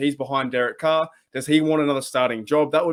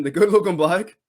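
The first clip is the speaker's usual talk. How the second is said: the good looking bloke, higher and louder; mock quote; 4 semitones higher, 5 dB louder than usual. Vlogger quotes what fans call Jimmy G, mock hyped. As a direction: hype it up as the fans say it. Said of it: "as they try and say".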